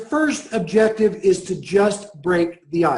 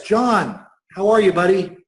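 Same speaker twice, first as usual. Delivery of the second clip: excited. Shown as a demonstration. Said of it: "I had excitement in my voice".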